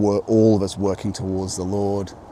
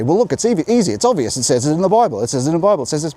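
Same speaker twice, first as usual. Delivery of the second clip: mock evangelical; 7 semitones higher, 5 dB louder, faster than usual. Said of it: "but they would say".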